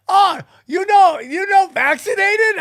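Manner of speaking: mock Indian accent, pitched high; imitated Indian accent. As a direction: draw it out as the shop lady. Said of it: "Indian accent".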